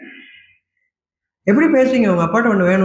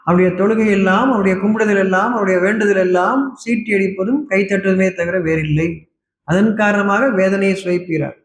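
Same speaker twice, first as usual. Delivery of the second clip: scripture recitation. Acted. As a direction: recite the verse deliberately, drawing out the phrases. Recites scripture in formal Tamil.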